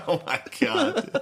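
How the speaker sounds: very high, slow wail; hammed-up self-pitying cry; mock crying. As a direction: wail it like sobbing into a pillow. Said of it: "just full on cry myself to sleep".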